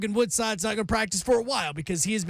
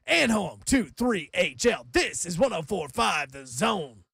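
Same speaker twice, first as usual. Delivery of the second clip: ad read. Acted. Radio ad read and station ID.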